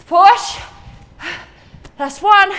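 loud, high push call; coaching shout. Real, not acted. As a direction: drive them through the rep with a shout. Coach urging during hard set.

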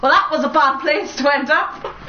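real laughter creeping into the words; amused. Real, not acted. Gamer ending up in a bad place, amused laugh. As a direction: say it through a laugh. Laughs after failing in game.

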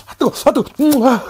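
hot bite, gasping through it; mouth full of hot food. Real, not acted. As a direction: talk around scalding food. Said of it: "겁나 뜨겁네".

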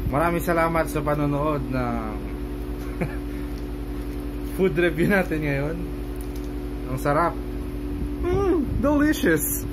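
muffled by cloth covering; speaking behind fabric gaiter; through a face mask. Real, not acted. Seen 4: Cloth gaiter covers mouth and nose throughout; absent in R frames.

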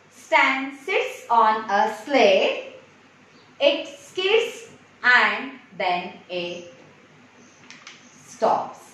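very slow, word-by-word read-aloud; slow model reading. Shown as a demonstration. Teacher reading practice sentences to young pupils, slow and spaced out. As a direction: leave gaps between words for learners to follow.

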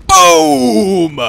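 loud gleeful boom; excited shout. Real, not acted. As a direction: shout it as the cannon fires. Cannon going off.

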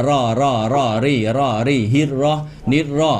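"รอ" and "รี่" with lips not rounded; unrounded R drill. Shown as a demonstration. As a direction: drill "ฮิร รอ นิร รอ" without pursing. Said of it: "อันนี้ไม่ห่อนะ".

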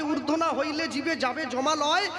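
put-on chanting the old verses in a steady preaching tone; verse recitation. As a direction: recite the verse like a kirtan singer. (পদাবলী আবৃত্তির সুরে)

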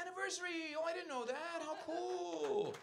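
high, squealing delight; mock gushing. Comic gushing at the couple's anniversary news. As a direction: gush over it like a thrilled fan.

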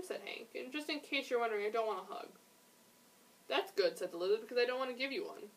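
gently animated picture-book reading; story narration. A narrator's reading. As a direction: read it aloud to young listeners. Reads a picture book aloud.

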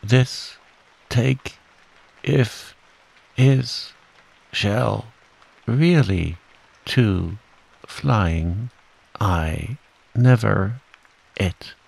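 one word at a time, broken by bumps; jolted speech. A narrator's reading. Piglet thinks aloud while bounced along, jolted word by word. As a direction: chop it up with a pause after nearly every word.

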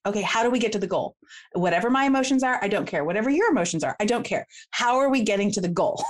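brisk, impatient push to the goal; rushing. Acted. A three in conflict rushing to the goal, brisk. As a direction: hurry past the feelings to the point. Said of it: "rush through it pretty quickly".

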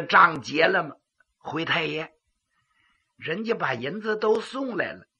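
pingshu character dialogue; lively voiced officials; storyteller voicing characters. Magistrate and clerk voiced in pingshu.

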